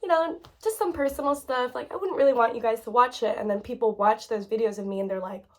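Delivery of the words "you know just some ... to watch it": evasive, embarrassed reply. Retold or imitated. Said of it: "And I'm just like".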